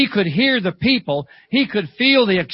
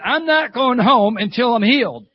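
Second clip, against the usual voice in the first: higher-pitched, emphatic refusal to leave; determined; 4 semitones higher than usual. Retold or imitated. Old lady holding out for healing, determined. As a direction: dig in, imitating a stubborn petitioner.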